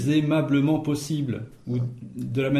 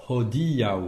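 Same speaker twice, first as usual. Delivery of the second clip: "hodiaŭ" with the accent on di; stress on DI. Shown as a demonstration. Teacher pointing out the tonic accent, stress on DI. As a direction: lean on the di in "hodiaŭ". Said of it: "l'accent tonique sur".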